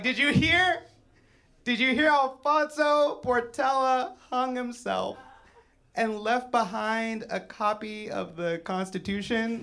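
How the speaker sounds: high-pitched mock-scandalized report; hammed-up hushless, high astonishment; shocked gossip. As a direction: break the awful news in disbelief. Imagined gossip about his death.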